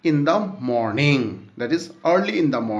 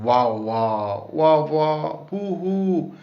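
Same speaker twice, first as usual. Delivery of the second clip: lightly acted bawling, wah wah then hoo hoo; mock crying wails; slower than usual. Shown as a demonstration. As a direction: fake a child's crying sounds. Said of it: "cries in a loud sound".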